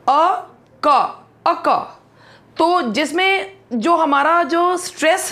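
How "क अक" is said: अक said slowly as अ then क; syllables split. Shown as a demonstration. Teacher splitting अक into syllables for students. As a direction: break अक into its two sounds, slowly. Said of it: "इसमें दो sounds आते हैं".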